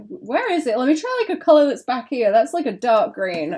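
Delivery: lightly voiced Valley Girl. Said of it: "I'm really feeling the Valley Girl voice today".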